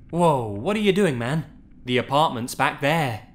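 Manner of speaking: mock scream from a panicked passenger; acted scream. Passenger protesting to the driver who turned around, acted screaming. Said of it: "my passenger was screaming".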